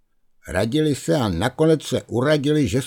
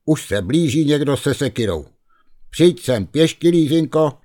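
lamenting letter; 5 semitones higher, 3 dB louder than usual. Acted. Lízinka reads the ghost's letter aloud, lightly pleading. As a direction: read the doomed letter as a wail for help.

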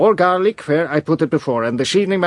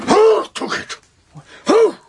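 high outraged shout; 4 dB louder than usual. Acted. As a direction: cry out the question at full voice. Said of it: "please don't shout so".

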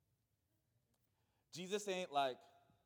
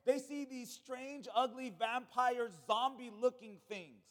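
slow, dwelling; 2 semitones higher, slower than usual. Acted. Slow stressed description.

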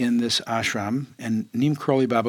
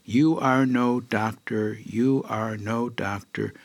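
finger-wagging guru; slower than usual. Retold or imitated. Guru wagging a finger at the disciple, slow deliberate scolding. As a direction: spell it out slowly like a teacher scolding.

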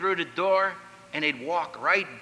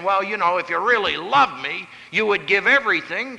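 typical pickup line; 2 semitones higher than usual. Retold or imitated. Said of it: "that typical line saying".

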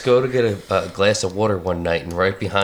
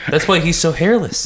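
laughing while talking; 7 semitones higher, 4 dB louder than usual. Real, not acted. Joke amid laughter.

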